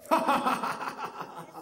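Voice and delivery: soft staccato pretend laugh; hammed-up ha-ha of scorn; mocking laugh. King and attendants laughing and pointing, mocking laugh. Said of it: "continued to laugh and point".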